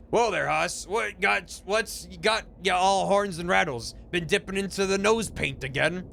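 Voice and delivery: put-on old prospector twang, slow; cowboy drawl. Gabby speaking to Huss in cowboy drawl. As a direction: play the grizzled old cowpoke. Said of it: "Gabby doesn't talk like that".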